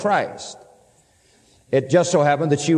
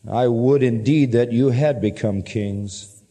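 slow, lower-pitched sarcasm; understated irony, taking it slowly; sarcastic; 5 semitones lower, slower than usual. Acted. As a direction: feign a solemn wish, drawn out. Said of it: "he's being sarcastic".

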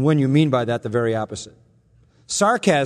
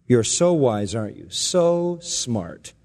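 sarcastic; 4 semitones lower, slower than usual. Pretend. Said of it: "that kind of sarcasm here".

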